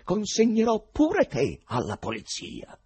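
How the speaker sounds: high, loud, drawn-out threat; infuriated threat. A narrator's reading. Ivan threatens the choirmaster with the police, infuriated. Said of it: "gridò Ivan infuriandosi".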